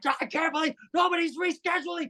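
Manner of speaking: mock, shrill, very high-pitched screaming. Retelling a man screaming at the speaker, imitating someone screaming. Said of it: "So he's like screaming at me".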